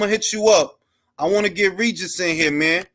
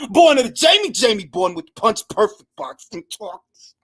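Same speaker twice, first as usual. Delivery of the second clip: hype shout-out; 3 semitones higher than usual. Real, not acted. Hyped shout-out.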